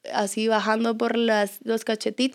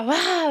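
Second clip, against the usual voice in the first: imitated crying; 6 semitones higher than usual. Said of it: "se la di y lloró".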